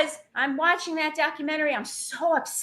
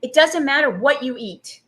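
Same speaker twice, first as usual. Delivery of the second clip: deadpan; 4 dB louder than usual. Retold or imitated. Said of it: "straight deadpan".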